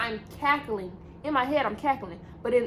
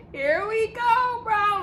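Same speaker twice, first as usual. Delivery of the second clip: higher, slow, half-laughing; laughing dread; 10 semitones higher, much slower than usual. Retold or imitated. Retelling the edible kicking in, laughing slowly. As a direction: laugh through the words as the panic sets in. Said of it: "And I'm like".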